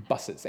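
"Buses" with a punched, exaggerated B and a small laugh; imitating toddler. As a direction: mimic a toddler hitting the B of "Buses". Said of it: "he really gets the B".

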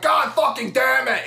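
high, slow mock-furious yell; exasperated outburst. Host retelling his reaction to the chase, exasperated yell. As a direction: draw out each word in hammed-up frustration.

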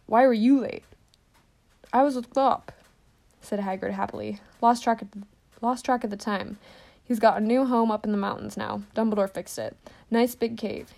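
big cheery giant chatting; hearty and pleased with himself; Hagrid's voice. Acted.

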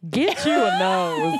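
put-on slow, high Minnesota accent. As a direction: stretch it out like a Minnesotan. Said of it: "I don't know what that accent was".

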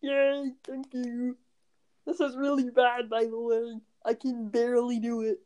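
lightly put-on puppet frog voice; a hint of a muppet frog voice; Kermit. Trying out the voice before singing, light Kermit impression. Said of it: "You sound like Jack's Film's impression of Kermit".

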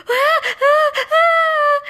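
high wailing "ah" sobs; hammed-up bawling, very high and loud; loud theatrical sobbing. A narrator's reading. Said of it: "she sobbed".

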